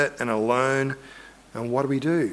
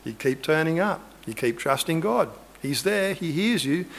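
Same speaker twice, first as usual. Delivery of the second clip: gentle reassurance; 5 dB quieter than usual. Retold or imitated. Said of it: "I said".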